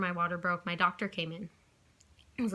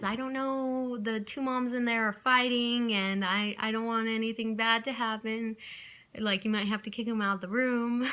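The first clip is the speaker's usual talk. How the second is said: higher, fretful grandma reporting to nurses; tattling grandma; 3 semitones higher than usual. Retold or imitated. Grandma to the nurses, higher fretful tattling. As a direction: tell on them, high and worried. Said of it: "and says".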